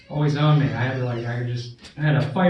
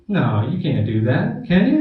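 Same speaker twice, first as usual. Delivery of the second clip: disbelief; 2 semitones higher, 5 dB louder than usual. Retold or imitated. Disbelief at the club.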